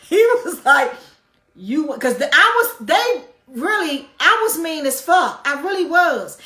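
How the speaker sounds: loud, high, laughing through the words; laughing while talking. Real, not acted. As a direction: talk while still cracking up.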